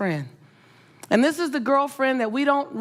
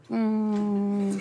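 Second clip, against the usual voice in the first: long, level "mm" imitating a window going down; regal hum. Storyteller showing the woman's Escalade window lowering, regal hum. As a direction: imitate a stately window sliding down. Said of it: "the window went down regal".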